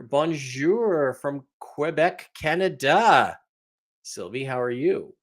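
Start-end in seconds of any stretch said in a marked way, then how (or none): 0.0-3.4 put-on slow, playful French-accented greeting; lightly put-on Québécois French accent; French-Canadian accent. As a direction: draw it out with a touch of French accent. Greeting a Quebec viewer.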